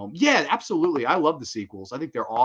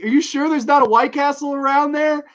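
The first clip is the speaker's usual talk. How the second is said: doubtful movie question; 13 semitones higher, 10 dB louder than usual. Retold or imitated. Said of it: "they're like".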